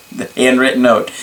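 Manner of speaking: dry, mocking repeat; sarcastic. Real, not acted. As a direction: scoff at the idea. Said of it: "I'm being sarcastic".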